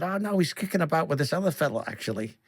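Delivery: a light Liverpool accent, imitating dad; dad's easygoing Liverpool accent. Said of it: "they had a famous accent".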